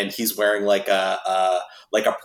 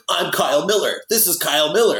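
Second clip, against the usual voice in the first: mock shouting; 7 semitones higher than usual. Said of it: "he's shouting into his phone".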